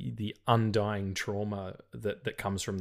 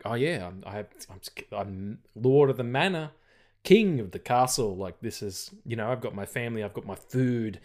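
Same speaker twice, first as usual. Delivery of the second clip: mock grandeur, lightly voiced; self-important. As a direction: play the smug king of the castle. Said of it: "that kind of self-importance that he puts on".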